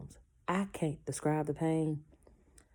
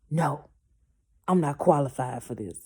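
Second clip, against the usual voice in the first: panicked doctor; 8 dB louder than usual. Retold or imitated. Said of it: "He was like".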